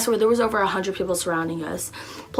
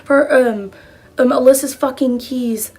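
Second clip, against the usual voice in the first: angry yell; 6 semitones higher, 6 dB louder than usual. Retold or imitated. Lexi yelling back at girls.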